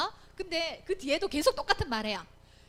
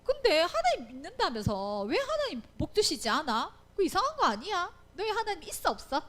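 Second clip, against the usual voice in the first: mock challenge, pitched up midway; skeptical taunt; 4 semitones higher than usual. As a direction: needle the believer as a doubter would. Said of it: "이렇게 얘기할 때". (믿는 사람을 놀리듯 따지는 말투)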